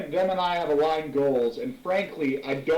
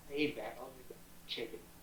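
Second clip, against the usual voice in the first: soft whisper, much quieter. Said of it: "I whisper over towards Juniper".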